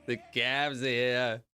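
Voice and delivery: put-on slow, stretched Jersey Shore accent. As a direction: imitate a Jersey Shore guy, drawing it out. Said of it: "Jersey Shore".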